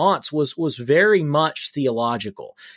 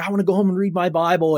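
eager retold excitement, quick and higher; mock-eager, higher-pitched quote; fired up; 4 semitones higher, faster than usual. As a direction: imitate someone all fired up, rushing it out. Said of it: "he was all fired up".

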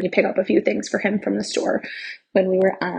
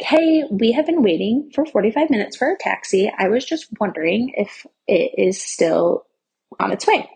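customer service voice. Retold or imitated. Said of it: "I call in my nice customer service voice".

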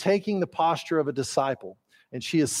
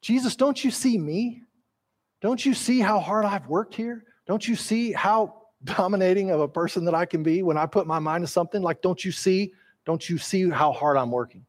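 mild whiny plea; 2 semitones higher than usual. Acted. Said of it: "what Martha's saying is just".

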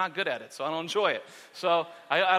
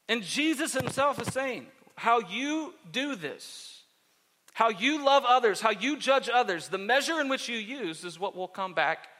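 emphatic, measured sermon delivery; preaching; 5 semitones higher than usual. Real, not acted. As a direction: drive each phrase home from the pulpit. Preaches Jesus' teaching.

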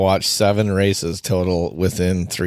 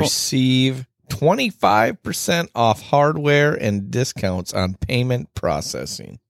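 announcer voice; 2 semitones higher than usual. Pretend. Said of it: "get into our announcer voices".

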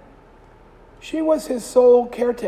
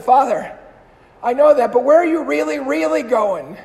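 put-on upset young man; 3 semitones higher, 6 dB louder than usual. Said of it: "getting a little upset".

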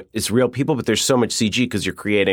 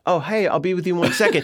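sudden sweet switch; 8 semitones higher than usual. Acted. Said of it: "he'd be in the middle of screaming".

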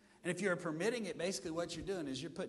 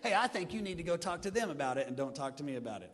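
direct and plain; 3 semitones lower than usual. Shown as a demonstration. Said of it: "look at 'em very directly and say".

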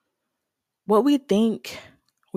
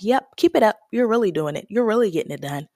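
mock encouragement; faster than usual. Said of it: "the enemy's lie of".

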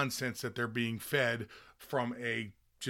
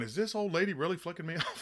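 laughing disbelief; 3 semitones higher, 4 dB quieter, faster than usual. Retold or imitated. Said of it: "you're going".

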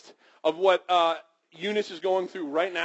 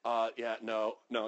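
reluctant refusal; 7 semitones lower, 7 dB quieter than usual. Retold or imitated. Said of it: "And they're like".

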